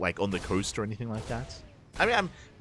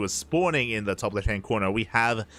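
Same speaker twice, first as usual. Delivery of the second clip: announcer intro. Acted. Caster introducing the players to viewers, announcer style. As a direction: present each player like a ring announcer.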